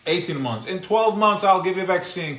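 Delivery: loud, high taunting boast, rising as it goes; mock defiant boast. DNA taunting its creator, a loud high boastful shout.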